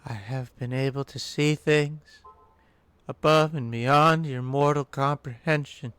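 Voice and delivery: slow, portentous mystic speech; arcane all-knowing being. Acted. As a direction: address feeble mortals with grand, deliberate pauses.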